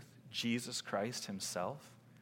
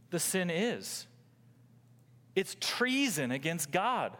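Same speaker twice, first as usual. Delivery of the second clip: weighty, insistent sermon delivery; emphatic preaching; 9 semitones higher, 5 dB louder than usual. Real, not acted. Preacher warning that sin is treason, emphatic preaching. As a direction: drive each key word home.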